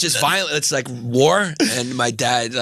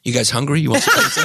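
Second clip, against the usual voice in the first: sudden cheerful dad; faster than usual. Retold or imitated. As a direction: switch to chirpy as if nothing happened. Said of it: "my dad just turns around and goes".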